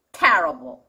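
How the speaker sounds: terrible with TER first, then falling low; first-syllable stress. Shown as a demonstration. Teacher finishing the contrast, terrible stressed on "TER". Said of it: "이렇게 됩니다".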